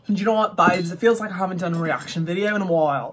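attempted Essex accent slipping into Australian; botched Essex accent. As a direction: put on a shaky Essex accent that drifts Australian. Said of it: "that started out as an Essex accent and somehow it converted to Australian".

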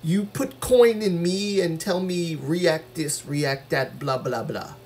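mock machine. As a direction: play a coin-operated machine being ordered around. Playing a coin-fed reacting machine.

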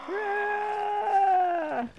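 zombie growl. Retold or imitated. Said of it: "Stupid zombie noises. They're so fun to copy".

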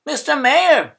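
loud, high greeting in a rush; running up to the mayor; urgent call. A narrator's reading. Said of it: "said Mister Pine".

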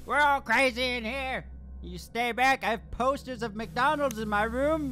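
loud, fast manic ranting; mock crazy yelling. Gamer shouting at monsters to stay back. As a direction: yell like a madman to scare them off.

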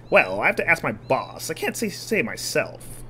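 slow, sly con man voice; smooth-talking swindler. Acted. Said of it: "swindler voice".

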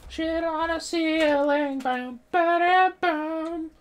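very high, slow squeaky voice; helium voice. Pretend. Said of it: "I'm high on helium".

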